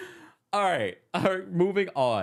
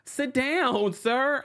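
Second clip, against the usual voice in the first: stern command; 9 semitones higher, much slower than usual. Retold or imitated. Mock scolding the fan.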